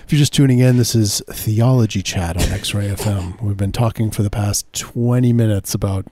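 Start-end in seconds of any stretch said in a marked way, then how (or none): 0.0-3.4 mock radio host.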